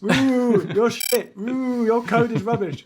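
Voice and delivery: a pretend comedy-club heckler booing; mock heckler. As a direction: jeer like a heckler in the crowd.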